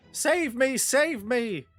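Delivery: high, loud panicked cries for help; screaming girl. Acted. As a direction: shriek for help like a terrified girl. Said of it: "is screaming".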